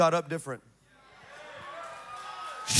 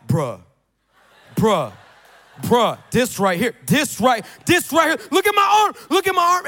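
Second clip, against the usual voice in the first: dawning amazement; 3 semitones higher, 5 dB louder than usual. Retold or imitated. Voicing football player realizing he is healed.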